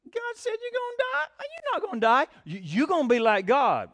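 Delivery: a high, sly serpent's voice that drops back down; a lightly voiced tempter; tempting devil. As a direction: whisper the lie like the serpent in Eden. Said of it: "What did the devil tell them?".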